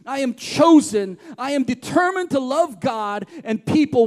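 firm, rhythmic declaration read; steady declaration reading; congregational declaration. Acted. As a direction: declare each line as truth over the room. Reads declarations aloud.

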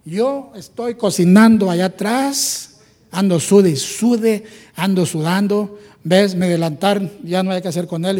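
slow, put-upon whining; flustered complaint. Retold or imitated. Marta complaining to Jesus about cooking alone, flustered. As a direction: drag out how hard you're working. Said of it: "y andaba de toda nerviosa".

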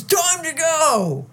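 high, slow drawn-out holler; acting out a rowdy host's shout; mock hollered announcement. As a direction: call time on the whole party. Acts out boss shooting ceiling.

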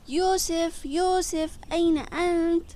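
high, loud calls with held notes; loud calling. A narrator's reading. Searchers calling for the lost boy at the zoo, loud calling. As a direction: call out loudly for someone far away. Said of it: "نادوا بصوت عالي".

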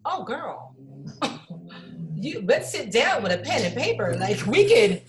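a hint of a take-charge girlfriend; mock pep talk. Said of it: "I was like".

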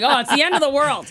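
high, loud overdramatic moaning; melodramatic sick husband. Retold or imitated. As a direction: ham up the dying patient. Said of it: "Jay drives me crazy. Like".

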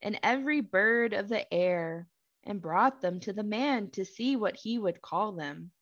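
measured, deliberate Bible narration; scripture reading. A narrator's reading. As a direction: read the verse out with spaced phrases.

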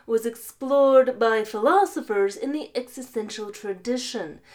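philosopher voice. Acted. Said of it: "put on your best philosopher voice".

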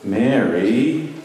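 slow, gentle, unhurried call; tender name-calling. Retold or imitated. Jesus revealing himself to Mary, tender.

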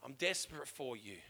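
a heart pleading quietly with God; quiet plea. Retold or imitated. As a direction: breathe it as a humble plea. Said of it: "a heart saying".

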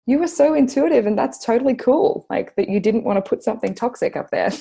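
high, loud cheering on her younger self; excited praise. Retold or imitated. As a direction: gush with delight. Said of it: "I'm just like".

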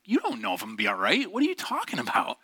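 quick retort leaping up in pitch; re-enacted exasperation, rushed then high; exasperated retort. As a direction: throw back an indignant, acted objection. Retorting to trite encouragement.

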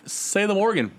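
high, hyped show announcer. Acted. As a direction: announce it like a ring card.

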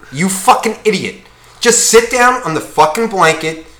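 mildly heated, sweary rant; getting angry. Real, not acted. Ranting at the beach soccer player, getting angry. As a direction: scold with rising irritation. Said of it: "I'm getting angry".

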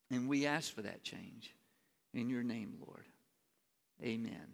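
hushed, earnest closing prayer. Real, not acted. Opening prayer before sermon.

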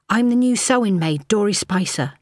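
a nervous newcomer giving her name; young maid's voice. A narrator's reading.

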